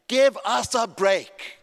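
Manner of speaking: loud, high, drawn-out protest; exasperated retort. Acted. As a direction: cut the complainers off, slowly and forcefully. Retort to imagined birthday complainers.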